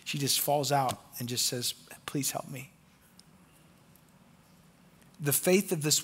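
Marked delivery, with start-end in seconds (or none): 2.0-2.7 quiet pleading. Acted. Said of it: "there is desperation in her pleading".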